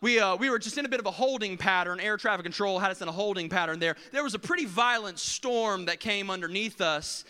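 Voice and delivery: smooth over the delay; lightly voiced airline pilot; pilot announcement. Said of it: "he says something like this".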